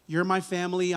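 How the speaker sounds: "my" in "You're my family" said as the most prominent word; stress on my. Shown as a demonstration. Pastor to his church, stressing "my" in "You're my family". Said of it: "with an emphasis on the word "my".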